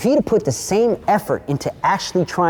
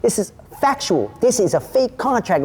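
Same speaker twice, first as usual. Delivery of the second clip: higher, emphatic and insistent; retold heated rebuttal; 5 semitones higher than usual. Storyteller answering the dude's protest with facts, heatedly emphatic. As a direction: hammer each point home. Retold argument, denies accusing him.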